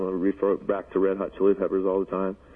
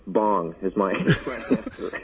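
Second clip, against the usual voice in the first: laughing; much slower than usual. Real, not acted. Stoner confession, laughs mid-line.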